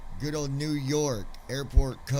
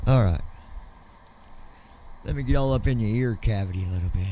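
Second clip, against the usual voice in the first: low, smooth seductive pilot voice; sexy pilot voice; 3 semitones lower, 3 dB louder, faster than usual. Shown as a demonstration. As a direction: croon it into their ear like a suave captain. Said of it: "my sexy pilot voice".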